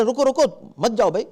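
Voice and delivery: quick, plain heads-up to a stranger; just let him know, no panic; simple informing call; calm warning. Shown as a demonstration. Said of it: "آپ صرف اس کو آگاہ کریں".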